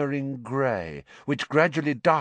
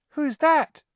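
much higher, louder, rising panic; panicky repeat; 6 dB louder than usual. A narrator's reading. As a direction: repeat it in a frightened squeak.

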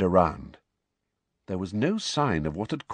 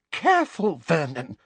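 breathed; 10 semitones higher than usual. Acted. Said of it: "breathed Aunt Petunia".

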